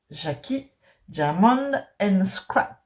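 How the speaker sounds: English name said with a French accent, slowly; a French speaker slowly reading out an English channel name. Real, not acted. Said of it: "avec mon accent".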